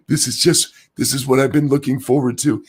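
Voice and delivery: lightly voiced politician quote; a hint of a drawling statesman; Bill Clinton. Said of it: "I went a little Bill Clinton there".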